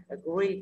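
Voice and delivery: "agree" stressed on GREE; light A, stronger GREE in "agree"; stress on second syllable. Shown as a demonstration. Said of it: "rơi vào âm tiết thứ hai". (nhấn âm tiết hai "agree")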